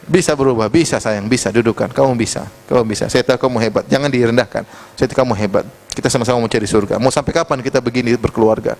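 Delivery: lightly voiced reassurance to a struggling partner; coaxing spouse. Spouse urging the other that change is possible, mild coaxing. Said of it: "Sampai kata istri".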